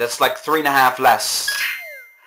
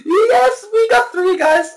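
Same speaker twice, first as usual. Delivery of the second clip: high, loud happy announcement; excited cheer; 4 dB louder than usual. Real, not acted. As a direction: tell them proudly, still buzzing. Celebrating the score.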